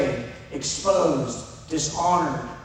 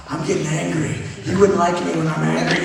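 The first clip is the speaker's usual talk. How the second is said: lightly mock-angry warning, building louder; Hulk; 6 dB louder than usual. Husband recalling his temper with his wife, mock Hulk anger. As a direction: build to a loud, playful threat. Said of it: "I'm just hulking out".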